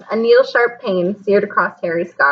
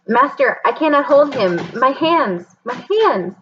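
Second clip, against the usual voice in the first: pained pleading; 5 semitones higher than usual. Acted. Quirrell in agony pleading.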